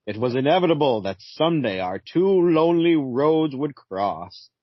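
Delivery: slow, solemn narrator of doom; Phantom Stranger voice. Acted. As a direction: intone it like a brooding spirit. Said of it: "you have a Phantom Stranger voice".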